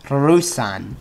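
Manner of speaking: Rusan with a rolled Russian accent. Shown as a demonstration. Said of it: "Like Russia in a Russian accent".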